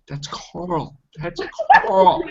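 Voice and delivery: half-mocking exasperation; exasperated. Annoyed at friends for ignoring Carl, mock insistence. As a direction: insist the name like it's obvious.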